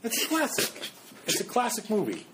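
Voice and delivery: high-pitched, incredulous laughter through the words; laughing disbelief. Real, not acted. Podcaster defending a classic movie to friends, laughing in disbelief.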